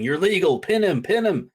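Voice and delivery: imitated urgent shout, high and loud; Cash Wheeler. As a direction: call out like a frantic tag partner at ringside. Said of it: "you had Cash Wheeler shouting".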